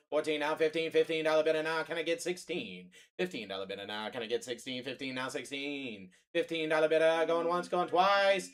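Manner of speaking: rolling auction chant calling bids; auctioneer. Acted. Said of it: "I gotta do the auctioneer".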